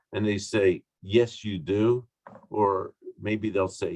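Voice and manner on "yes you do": slow, measured "yes, you do"; straightforward, considered assent; clear permission. Acted. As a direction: grant it plainly and deliberately. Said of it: "Those are both permissions, but they mean very different things".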